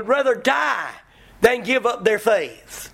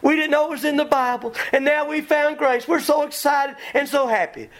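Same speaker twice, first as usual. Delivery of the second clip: mocking giddy convert; 5 semitones higher than usual. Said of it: "somebody comes along and says".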